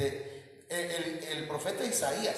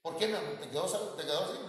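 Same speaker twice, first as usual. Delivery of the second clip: gentle husband; 3 semitones higher, 4 dB quieter than usual. Retold or imitated. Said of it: "Mejor de otra manera".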